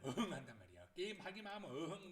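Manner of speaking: playful mock roar through a laugh; tiger growl. Mum as a tiger when the child games, playful roar. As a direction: roar lightly like a tiger, amused. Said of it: "여기 소리가 다 상상이 되죠".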